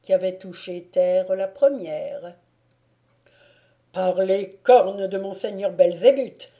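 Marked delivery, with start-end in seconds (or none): 3.9-6.5 loud delighted oath; gleeful exclamation. Acted. Baron exults after shooting down the branch, loud delighted oath. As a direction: crow over your lucky shot. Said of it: "s'écria le baron Jean".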